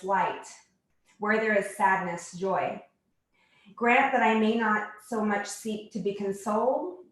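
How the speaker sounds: measured recitation of a prayer, phrase by phrase; prayer reading. Acted. Yoga teacher reads a favorite prayer to the class, measured recitation. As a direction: read it as a prayer, pausing between phrases.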